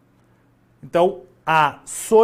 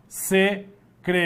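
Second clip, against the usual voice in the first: secretária slowly in syllables, stress on TÁ; secretária in separate beats with the accent on tá; 4 dB quieter, slower than usual. Shown as a demonstration. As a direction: sound out se, cre, TÁ, ria with pauses. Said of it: "só que o acento mudou".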